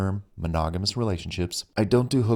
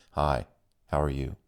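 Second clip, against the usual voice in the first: sexy phone voice; 6 semitones lower than usual. Acted. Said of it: "he asked in what sounded like a very sexy phone voice".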